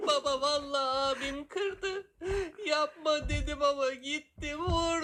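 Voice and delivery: put-on whiny tattling kid. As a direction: whine to dad like a little kid. Child tattling to father.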